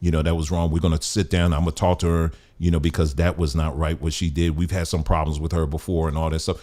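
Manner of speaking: low, soft retold apology; apologetic. Manager apologizing to wronged customer, soft and apologetic. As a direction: imitate a contrite, placating manager in a subdued voice. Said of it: "he was so apologetic".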